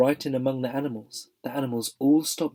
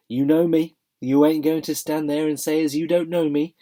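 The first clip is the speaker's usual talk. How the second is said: loud Cockney cabby pleading; 5 semitones higher, 7 dB louder than usual. Acted. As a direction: plead like a London cabman.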